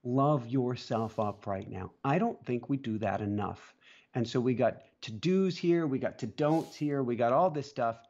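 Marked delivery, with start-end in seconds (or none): 0.0-1.9 slow, gentle repeat; slow sincere urging; tender. Real, not acted. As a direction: linger on love yourself up. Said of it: "one last thing for people".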